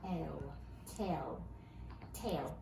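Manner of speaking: "T-L", "Tell", "Tail" tried in turn at low pitch; sounding out a word. Shown as a demonstration. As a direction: sound it out, then land on "Tail". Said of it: "Read this word for me".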